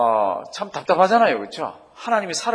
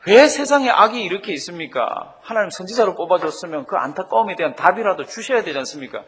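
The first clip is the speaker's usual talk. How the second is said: mildly acted cry of protest; imitated anguished appeal; 4 dB louder than usual. Prophet questions God about evil in the world, mildly anguished appeal. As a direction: put the prophet's frustrated question to God, starting strong. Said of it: "막 부르짖고 하나님 아버지 앞에서 안타까워합니다".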